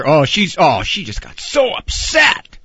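hammed-up loud complaint; overdramatic kid. Kids accusing their mother of getting upset, overdramatic. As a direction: build the mock outrage toward the end.

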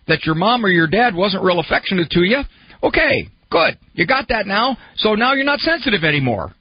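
sarcastic. Retold or imitated. Sarcastic mock of simple cure.

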